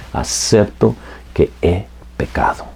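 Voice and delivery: softly whispered, humble; a penitent sinner whispers his confession. Acted. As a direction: breathe the confession to God.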